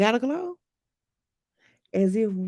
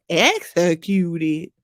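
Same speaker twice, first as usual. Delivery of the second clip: slow drawn-out rapper call; a rapper's voice; 4 semitones lower, 3 dB louder, much slower than usual. Acted.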